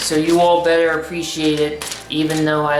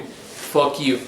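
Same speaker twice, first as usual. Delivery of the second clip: lowered voice; 3 semitones lower than usual. Shown as a demonstration. Dismissing critics of the deepening voice, deliberately low. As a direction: drop the voice low to tell them off. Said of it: "I can talk like this".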